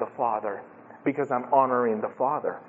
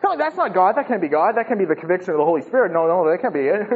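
mock dismissal; 3 semitones higher, faster than usual. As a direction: imitate sceptics quickly brushing it off. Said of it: "they were brushing it off".

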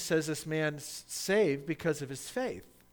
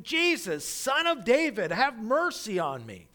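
loud, high plea for mercy; crying out; 7 semitones higher, 6 dB louder than usual. Acted. Blind beggar crying out to Jesus, loud and high. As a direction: call out over the crowd, much higher and louder. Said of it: "And he cried out".

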